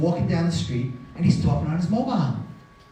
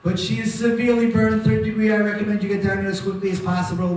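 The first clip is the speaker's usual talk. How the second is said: urgent phone message; 5 semitones higher than usual. Retold or imitated. Urgent phone call to mother.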